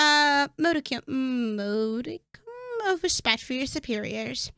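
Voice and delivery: lightly voiced, menacing vampire lord; a hint of a smug undead master, taunting; sneering vampire addressing his foe. Reads the vampire lord's lines.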